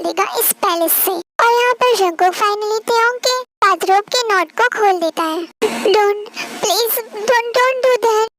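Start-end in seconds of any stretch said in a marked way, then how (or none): 6.0-8.3 slow, drawn-out pleading; frightened wife begging him to stop. Acted. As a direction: stretch each don't as you beg. Tae begs Jungkook to stop.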